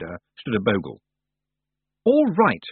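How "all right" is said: high, forceful resolve; grimly insistent. A narrator's reading. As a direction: brace for bad news, grimly. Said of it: "said Roland grimly".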